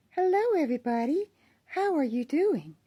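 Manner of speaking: high, airy greeting in a lifted voice; closed vocal cords. Shown as a demonstration. Vlogger showing how she can raise her voice, high and light. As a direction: pitch it well above your natural tone. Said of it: "If I close my vocal cords".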